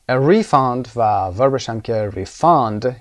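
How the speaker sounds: "A refund" then the verb "refund", slowly, with the stress moved as the teacher describes; teacher contrasting stress in noun and verb "refund"; stress shift in refund. Shown as a demonstration.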